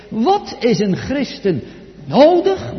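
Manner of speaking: "nodig" jumps high and loud; stress on NODIG. Shown as a demonstration. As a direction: punch the word "nodig", pitched well up. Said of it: "met nadruk op nodig".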